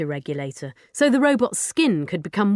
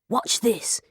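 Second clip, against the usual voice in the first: breathy hushed whisper; 4 semitones higher than usual. Acted. Boy whispering to his friend before the reveal, hushed whisper. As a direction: hush it like a secret about to be revealed. Showing off the robot quietly.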